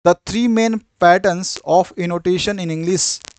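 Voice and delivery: very slow, spaced heading read; teacher dictating a heading slowly; slow dictation. Shown as a demonstration.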